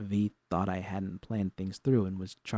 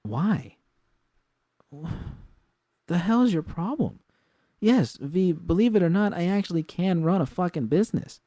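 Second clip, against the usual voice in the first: much higher and louder, indignant; angry retort; 10 semitones higher, 5 dB louder than usual. A narrator's reading. Jude snaps at V for mocking her, angry. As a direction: snap back, stung and furious.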